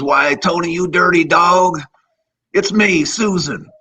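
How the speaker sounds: high, loud playful scolding; teasing Susan. Retold or imitated. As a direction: tease him like an old friend. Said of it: "And, and Susan says".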